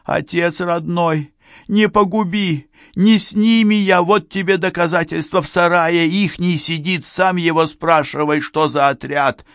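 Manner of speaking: very high, frantic begging; high-pitched despairing howl of words; desperate wailing plea. A narrator's reading. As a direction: beg for your life in a high wail. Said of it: "Пасечник взвыл что-то отчаянно".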